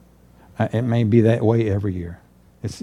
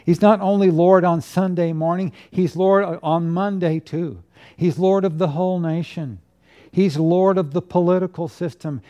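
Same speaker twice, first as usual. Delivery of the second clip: raised pitch, ringing declarations; emphatic preaching; 4 semitones higher than usual. Real, not acted. Pastor proclaims Christ's lordship to the congregation, emphatic preaching. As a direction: preach it higher, point by point.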